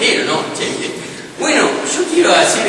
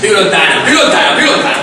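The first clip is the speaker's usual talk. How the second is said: loud; 5 dB louder, faster than usual. Acted. Italian persona shouting repeatedly.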